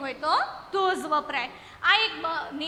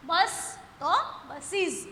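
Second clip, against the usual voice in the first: slow model words; much slower than usual. Shown as a demonstration. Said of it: "teacher models plural".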